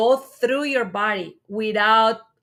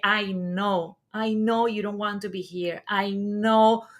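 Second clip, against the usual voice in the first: gentle reassurance. Retold or imitated. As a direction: soothe the crying baby gently. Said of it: "hold the space and say".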